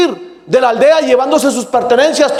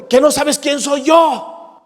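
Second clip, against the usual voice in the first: slow, shouted threat of a proud warrior; furious warrior; slower than usual. Acted. Warrior confronting the calm sage, slow angry shout. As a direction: bark it out slow like a conqueror nobody defies. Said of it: "se pone furioso".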